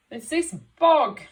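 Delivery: high, loud plaintive dog; dog's voice. Acted. Teacher voicing the stuck dog in the story, high and plaintive. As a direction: play the sad stuck dog. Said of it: "said the dog".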